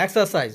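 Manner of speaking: এক্সারসাইজ said with no R sound after the first vowels; silent R. Shown as a demonstration. Teacher showing learners a silent letter, এক্সারসাইজ without R. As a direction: drop the R in এক্সারসাইজ. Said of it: "আর এর উচ্চারণটা হবে না".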